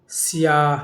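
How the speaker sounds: سیاہ ending on long aa plus audible h; sounded final h. Shown as a demonstration. Teacher listing examples for students, sounded final h. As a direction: finish سیاہ on a clear ہ. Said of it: "جو تلفظ میں آئے".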